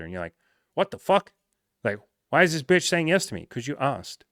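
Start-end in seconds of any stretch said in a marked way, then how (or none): 0.7-3.5 high, loud incredulous outburst; acted baffled astonishment; stunned disbelief. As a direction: react as if her yes makes no sense. Acted disbelief at her yes.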